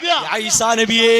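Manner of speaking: slow, stretched-out mock invocation; mock drawn-out call. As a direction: call out slowly, mocking the devotee. Mock calling out to Isa Nabi. (പരിഹാസത്തോടെ നീട്ടിയുള്ള വിളി)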